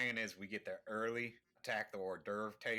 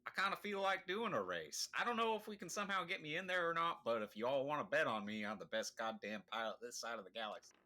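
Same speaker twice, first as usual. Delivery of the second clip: higher, boastful pilot character voice; cocky pilot; 5 semitones higher than usual. Acted. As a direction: brag like the galaxy's hotshot pilot.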